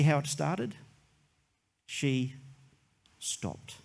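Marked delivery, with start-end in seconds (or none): 1.9-3.8 pause, then stopped whispered; preacher whispers the refrain. Acted. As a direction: drop to a breath on stopped. Refrain applied to her.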